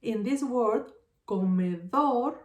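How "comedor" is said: "comedor" with the weight on dor; drawn-out, stressed dor ending "comedor"; stress on final syllable. Shown as a demonstration. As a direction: lean slowly on the last syllable of "comedor". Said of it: "my strongest syllable is dor".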